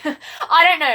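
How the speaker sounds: laughing it off. Real, not acted. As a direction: chuckle through the words. Laughing at own story.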